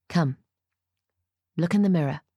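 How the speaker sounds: gently coaxing; gentle. A narrator's reading. Ruth coaxes the bride to the mirror, gentle. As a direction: ease them toward it, unhurried and restrained. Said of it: "She is gentle now".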